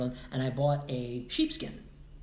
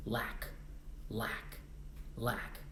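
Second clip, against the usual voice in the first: each lack lower and softer; fading repetition; 4 semitones lower, 11 dB quieter, much slower than usual. Retold or imitated. Telling himself he'd keep remembering lack, fading softly. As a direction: let the word sink away.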